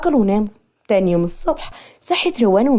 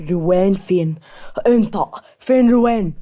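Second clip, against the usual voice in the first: angry demand; slower than usual. A narrator's reading. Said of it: "كان غضبان جدًا".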